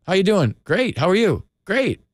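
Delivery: bright, lilting fake cheer, pitch up; breezy pretend pleasantries; mock chirpy small talk. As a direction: play both sides of a hollow greeting. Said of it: "the biggest lie every single day that we all do is".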